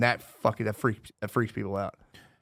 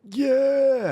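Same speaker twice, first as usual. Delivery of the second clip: put-on excited kids; 7 dB louder than usual. Kids cheering about the move.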